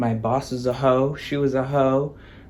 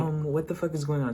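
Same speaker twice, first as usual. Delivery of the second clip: whisper fighting; 7 dB quieter, faster than usual. Retold or imitated. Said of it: "whisper fighting".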